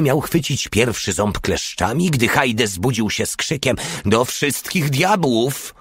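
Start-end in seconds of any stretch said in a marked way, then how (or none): 4.0-5.7 higher, drawn-out cry of amazement; astonished exclamation. A narrator's reading. Porta startled by the waking Hajde, astonished exclamation. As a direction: exclaim in amazement, stretching the oath. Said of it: "zawołał zdumiony Porta".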